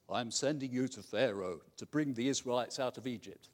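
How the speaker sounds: solemn voice of God. Acted. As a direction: speak as God commanding Moses. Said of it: "That's my God voice".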